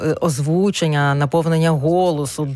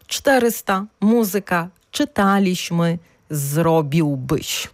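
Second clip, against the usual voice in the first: "чотириста, музика, читаліщми, зробівбиш" each stressed on the third-last syllable; spaced examples, MU in "музика", TA in "читаліщми"; stress third from end. Shown as a demonstration. Teacher summing up the rule, stress on third-last syllable. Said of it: "третій склад від кінця, і тут наголос обов'язковий".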